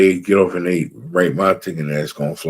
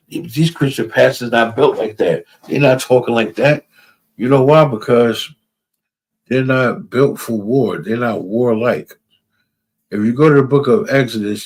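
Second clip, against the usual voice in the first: raised, higher, building preaching, slowing at the end; fervent preaching; 4 semitones higher, 4 dB louder than usual. Real, not acted. Preacher to his listeners, fervent raised preaching. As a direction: preach it out, rising to a peak.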